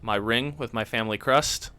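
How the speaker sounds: low, lofty aristocrat; snooty voice. Acted. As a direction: say it like a snob showing papers. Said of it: "Put your snooty voice on".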